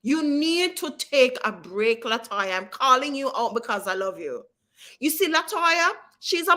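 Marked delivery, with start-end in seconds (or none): 0.0-2.6 caring insistence. Real, not acted. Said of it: "talk to you in love and care".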